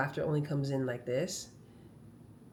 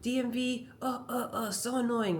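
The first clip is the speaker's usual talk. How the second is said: higher-pitched, rushed, flustered complaint; exasperated venting; 7 semitones higher than usual. Retold or imitated. To the massage therapist and kinesiologist about mom at the DMV: flustered venting. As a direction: gush the frustration all at once. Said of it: "and I said".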